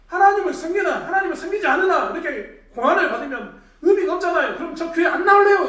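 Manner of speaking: high, loud acted grumbling; disgruntled complaint. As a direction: protest loudly like a fed-up churchgoer. 불평하는 교인을 재연. (목소리 높여 불평하듯)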